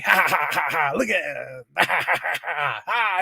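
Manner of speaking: mock belly laugh, oblivious; put-on hearty cackling; imitating dad's laughter. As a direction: guffaw like someone glued to funny videos. Imitating dad laughing at videos.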